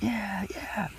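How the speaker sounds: high breathy whisper of encouragement; whispered egging on. Retold or imitated. Friend urging me on in a high whisper. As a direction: whisper yeah yeah eagerly.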